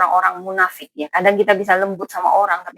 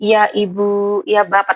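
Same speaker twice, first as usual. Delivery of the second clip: slow, mildly put-on politeness; mock gentle; slower than usual. Hypocrite politely answering madam and sir, mock gentle. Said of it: "kamu cuman ngomong lembut".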